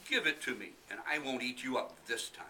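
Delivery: high, loud delighted tiger; snatch the offer like a greedy tiger; sly tiger. Acted. Tiger voice in read story.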